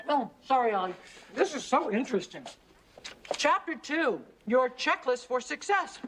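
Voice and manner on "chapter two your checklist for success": lilting self-help book read-aloud. Acted. Kate reads a business book to her busy partner, reading aloud. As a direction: read out a chapter heading with lift.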